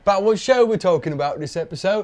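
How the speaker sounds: put-on playful Peaky Blinders-style British accent; mock British accent, lightly done. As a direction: talk like a British gangster show. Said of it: "should we be talking like this".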